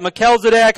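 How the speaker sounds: "Melchizedek" with a hard k, muh-KEL-zuh-dek; hard K pronunciation. Shown as a demonstration. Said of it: "how did you say that".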